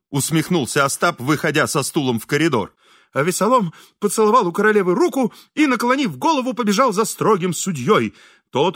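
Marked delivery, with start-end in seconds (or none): none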